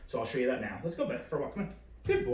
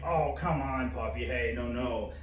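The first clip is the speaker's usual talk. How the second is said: disappointed tone; slower than usual. Shown as a demonstration. Trainer telling a puppy no, disappointed but not aggressive. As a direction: gently let down, not aggressive. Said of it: "disappointing tone".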